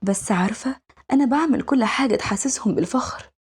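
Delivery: lightly voiced innocent little girl; a hint of a child missing her parents; wistful young girl. Young girl confiding that she misses mum and dad, lightly girlish and wistful.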